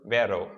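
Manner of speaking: "vero" with a Spanish tongue-tip r. Shown as a demonstration. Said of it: "The closest R is the Spanish R".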